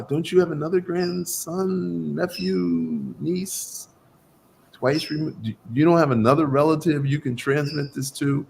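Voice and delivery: retold hesitant wriggling out of it; reluctant questioning. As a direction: act out trying politely to dodge a burden. Acts out reluctant reply to master.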